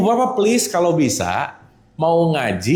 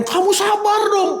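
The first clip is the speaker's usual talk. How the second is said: much higher, mock irritated demand for patience; annoyed telling. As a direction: imitate a parent impatiently ordering calm. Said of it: "tapi ngomongnya sambil kesel". (nada kesal pura-pura menyuruh sabar)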